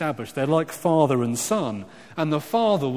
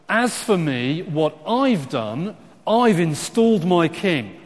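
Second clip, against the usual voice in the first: "I've installed my king" driven out louder and higher; weighty, raised stress on "me", "I've" and "installed"; very emphatic; 4 semitones higher, 4 dB louder than usual. Acted. God declaring what he has done, very emphatic. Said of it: "It's actually very emphatic. It's a kind of".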